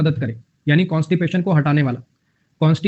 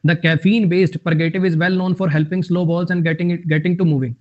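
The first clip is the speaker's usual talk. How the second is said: slow, careful reading of an English example; much slower than usual. Acted. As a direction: read each word out slowly for the class. Reads example sentence slowly. (धीमे-धीमे उदाहरण वाक्य पढ़ना)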